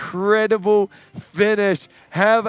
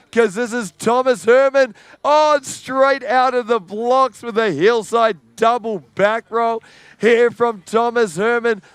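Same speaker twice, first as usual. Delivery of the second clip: raised, pumped-up call of the opening tricks; building hype; 4 semitones higher than usual. Real, not acted. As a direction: get the crowd ready, then call it live. Next rider drops in, hype.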